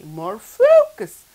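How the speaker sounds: "focus" drawn out, high and loud; slow, forceful "focus"; emphasis on FOCUS. Shown as a demonstration. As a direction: punch and stretch the word "focus". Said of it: "Used to put more emphasis".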